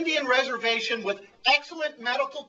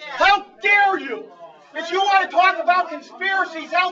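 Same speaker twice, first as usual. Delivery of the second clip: shouting; 3 semitones higher than usual. Real, not acted. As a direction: yell it out in fury. Accused of being sent by conspiracy.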